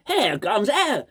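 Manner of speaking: slow, drawn-out posh English hello. Retold or imitated. Vlogger redoing the caller's greeting in a posh accent. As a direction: stretch it out like a toff answering the phone. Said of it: "that's quite a posh".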